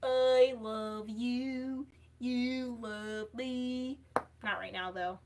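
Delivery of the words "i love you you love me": slow, lightly voiced Barney singsong; a hint of Barney, very slow; Barney impression. Shown as a demonstration. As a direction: drawl it out like Barney. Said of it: "I can kind of do a Barney impression".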